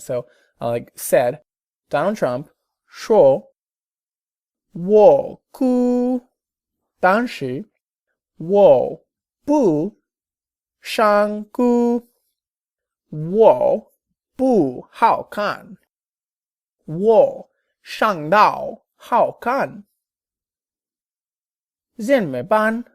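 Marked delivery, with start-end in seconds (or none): 2.9-3.4 put-on louder, the sure said with a Chinese accent; imitating a Chinese-accented sure. Learner copies the teacher's Chinese-accented sure. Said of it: "like, in an accent". 4.7-22.8 higher, lightly hammed-up whiny Trump lament; a touch of mock despair, drawn out. Learner voices Trump in the story, a mock whiny lament.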